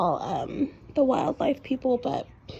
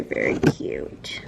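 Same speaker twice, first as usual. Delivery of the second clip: whispering; much slower than usual. Real, not acted. Whispering about deer.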